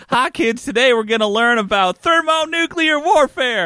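put-on high-pitched kids-show host voice; cartoon character voice. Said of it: "That sounds like a cartoon character".

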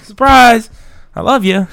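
spring it on them with hammed-up glee; mock surprise. Mock proposal.

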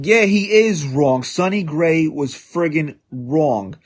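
real frustration, punched out slowly; heated rebuttal. Real, not acted. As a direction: hammer home that he's wrong. Host rebutting fans, heated.

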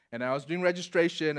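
ordinary talk

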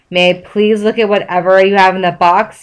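snapped. Acted. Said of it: "he snapped".

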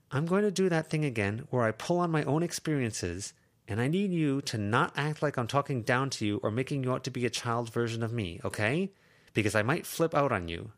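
put-on a teen girl pressing a point; Lucy's voice. Lucy pressing Avery, a lightly voiced teen.

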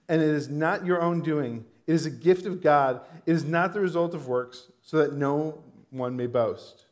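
measured, emphatic Bible reading; scripture reading. Acted. Pastor reads Ephesians to congregation, measured scripture reading. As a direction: read the verse out deliberately, weighting key words.

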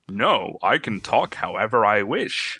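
slow, deliberate creature speech; odd shapeshifter voice. Acted. Shapeshifter answering a question about its speech, odd slow voice. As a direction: talk like a badly dubbed creature. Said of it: "is that gonna be how you talk the whole time".

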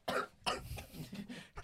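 choking cough; sputtering cough after a sip; coughing on a drink. Real, not acted. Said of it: "你又呛到".

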